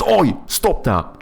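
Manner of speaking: mock-scold the kids on the street; a hint of a grumpy old neighbour; old man scolding. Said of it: "old man shouts to some kids".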